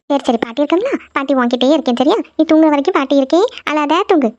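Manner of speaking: put-on calm the child back to sleep; soothing. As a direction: grandmother comforting the girl. Grandmother soothes the crying girl.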